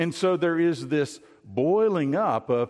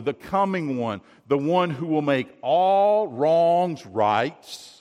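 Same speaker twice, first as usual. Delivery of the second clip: fervent declaration; 4 dB louder, slower than usual. Acted. Peter's confession, preached with rising fervour.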